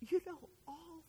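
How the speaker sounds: very soft, broken, whispered sobbing plea; choked through tears. Acted. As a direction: choke it out in fragments with long pauses. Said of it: "he just chokes out his response. And through his tears".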